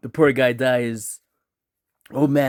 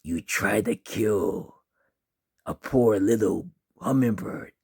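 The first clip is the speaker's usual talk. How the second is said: slow, slightly lowered monster bird voice; menacing bird creature; 2 semitones lower than usual. Acted. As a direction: draw it out slowly as a threatening bird. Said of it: "The bird says".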